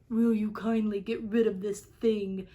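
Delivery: a hint of smug monkey politeness; a touch of the monkeys. A narrator's reading. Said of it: "and they said".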